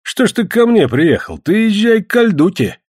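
high-pitched mock astonishment; put-on bewilderment, voice lifted; feigned surprise. A narrator's reading. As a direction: act puzzled and send him elsewhere. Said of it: "взглянул на него сделанным удивлением".

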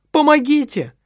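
the wife screams for help while being dragged, loud and high; screaming for help. Acted. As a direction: yell for anyone to come. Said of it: "кричала она".

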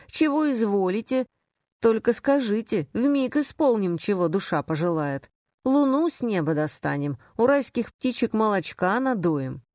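lightly mimicked eager, obliging servant; fawning servants. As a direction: lay on a little mock servility, pitch lifting and falling. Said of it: "мамки, няньки, горничные да шофёры". (угодливая прислуга, с лёгкой насмешкой)

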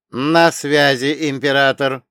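even, booming AI voice; a hint of an echoing machine; echoing ethereal energy being. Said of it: "раздался ровный, чуть гулкий голос Ц Б А".

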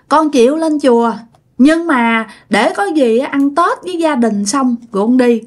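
put-on child's voice. Spirit child answers mother.

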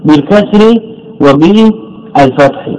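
teacher pointing out both vowels; contrast stress. Shown as a demonstration. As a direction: set بالكسر against وبالفتح. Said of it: "جاء بالوجهين".

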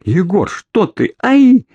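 alarmed, then a sharp cry of pain; startled cry. A narrator's reading. Orlova, suddenly tied up by Egor, cries out.

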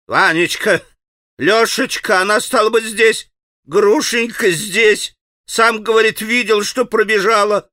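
a father choking on his news; breathless excitement. A narrator's reading. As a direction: gasp it out in a rush of excitement. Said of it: "Он захлёбывался".

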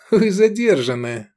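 höher, lauter, langsam mit hämischem Grinsen; genüsslich triumphierend verkünden; grinsend. A narrator's reading. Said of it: "ухмыльнулся Эдик".

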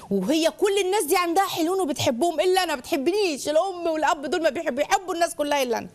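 high, aggrieved complaint; acted plaintive grievance; hurt child. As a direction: protest like the unloved child. Acting a child hurt by comparisons.

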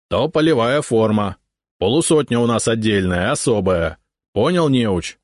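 a lightly voiced gruff cossack sergeant, scolding; gruff old sergeant. Old sergeant scolding the урядник, lightly voiced gruff.

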